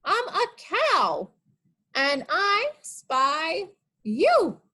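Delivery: high, slow playful cow; cow character voice. Pretend. Teacher as the cow teases the children.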